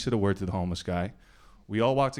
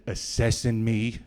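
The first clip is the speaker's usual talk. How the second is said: slow requote; slower than usual. Retold or imitated. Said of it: "Like, he said".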